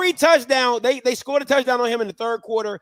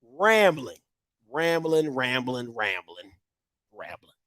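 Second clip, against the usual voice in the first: each rambling softer and lower until it vanishes; fading repetition; 11 semitones lower, 6 dB quieter than usual. Real, not acted. Praising a player's runs to viewers, fading repetition. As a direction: let the word trail off into nothing. Repeats word while fading away.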